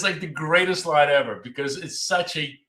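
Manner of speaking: normal talking voice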